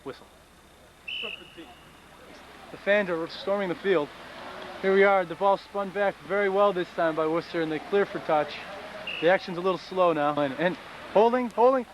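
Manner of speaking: lively sports commentator voice; play-by-play commentary. Pretend. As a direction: call the match like live TV. Mock rugby play-by-play.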